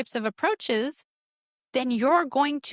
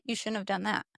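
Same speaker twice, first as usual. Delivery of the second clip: mock blaming, fading; 3 semitones lower, 7 dB quieter than usual. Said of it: "We're like".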